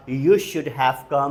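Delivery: very slow, clear delivery; slow model sentence. Shown as a demonstration. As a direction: spell out the structure slowly. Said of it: "come की third form". (धीमा स्पष्ट वाक्य)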